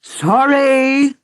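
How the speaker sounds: high, loud outraged cry; furious shout. Acted. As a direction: hurl the word back at him. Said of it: "the Queen shouted".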